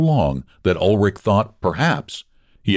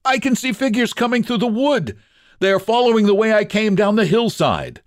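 much higher, thrilled voice; joyful cry. Acted. Ulrich spots figures in the wood, joyful cry. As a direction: cry out with sudden joy. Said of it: "Ulrich gave a joyful cry".

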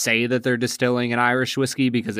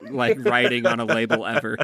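laughing. Real, not acted. Joking about tiny label text.

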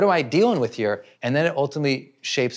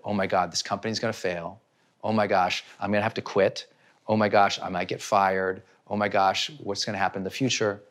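panicked inner voice; 7 semitones lower, 5 dB quieter than usual. Retold or imitated. Worried employee's panicked thoughts.

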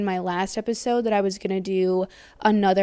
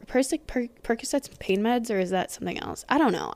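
normal talking voice

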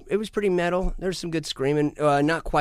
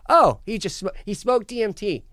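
high, loud mocking voice; mock bystander; 9 semitones higher, 4 dB louder than usual. Friend excuses his weird night in a high mock voice. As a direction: play a friend explaining it away. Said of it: "I was like".

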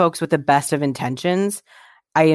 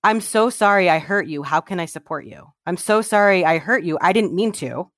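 sincere apology; 3 semitones higher than usual. Pretend. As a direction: apologize like you truly mean it, gently.

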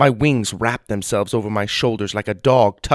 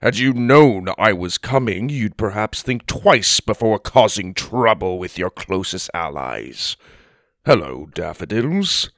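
stern giant; 3 semitones lower than usual. Acted. Giant speaks in story.

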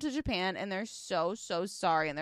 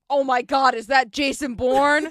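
excited gasp; 10 dB louder than usual. Retold or imitated. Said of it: "Missus B is like".

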